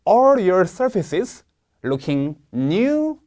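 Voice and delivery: "all" punched, the rest slow; stress on all. Shown as a demonstration. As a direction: hit all hard, then read on slowly. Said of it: "all 세게 읽어야 됩니다". (all에 강세를 주어 천천히)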